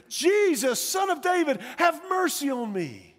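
high-pitched acted plea; imitated desperate call, pitch way up; desperate cry. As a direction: cry out for mercy as the beggar. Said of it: "crying out with everything he has, desperate".

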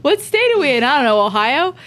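high, puzzled mock voice; clueless lost executive. Mocking companies that got lost and stayed, squeaky confused voice. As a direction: play a baffled boss who lost the map.

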